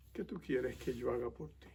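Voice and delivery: hushed, gentle asking; gentle question. Acted. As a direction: ask it quietly and low, as Jesus to the blind man. Jesus gently asks the blind man.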